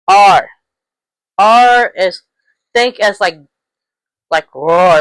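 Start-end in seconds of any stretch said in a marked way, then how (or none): 4.5-5.0 "roar" with drawn-out R at both ends; R sound as roar. Shown as a demonstration. Teacher says think dinosaur, R sound as roar. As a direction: lean on the R of "roar", lower voice. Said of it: "like a dinosaur roar".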